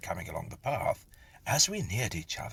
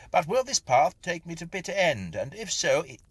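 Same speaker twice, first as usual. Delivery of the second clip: loud, higher call to a stranger; raised voice; 9 semitones higher, 7 dB louder than usual. A narrator's reading. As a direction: raise your voice so he hears. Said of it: "I said, raising my voice".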